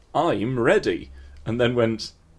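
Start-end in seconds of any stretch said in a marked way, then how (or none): 0.1-1.1 very proud, self-assured, confident delivery. Retelling what the other speaker said earlier: imitating a proud announcement. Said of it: "you very proudly said".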